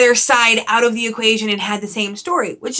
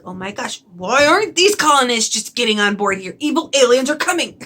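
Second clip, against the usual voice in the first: irritated. Retold or imitated. Reader venting at the stubborn colonists, irritated. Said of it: "I was irritated too".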